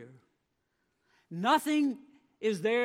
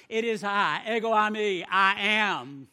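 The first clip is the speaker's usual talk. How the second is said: louder, ringing declaration; a hint of a proclaiming Jesus; 6 dB louder than usual. Jesus calling to the frightened disciples, ringing out. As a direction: call it out across the water.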